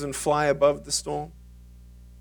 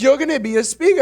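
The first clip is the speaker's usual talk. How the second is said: imitating friend; 10 semitones higher, 7 dB louder, faster than usual. Quoting friend pushing him.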